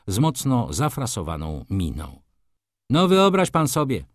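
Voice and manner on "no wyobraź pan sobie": louder, higher-pitched exclamation; exclaiming. A narrator's reading. Maruszewicz to the doctor at the gate, exclaiming. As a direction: call out with indignant surprise. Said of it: "zawołał".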